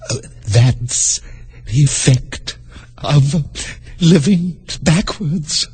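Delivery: gentle, slow and kindly; kindly queen, drawn out slow. Acted. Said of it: "the Queen said kindly".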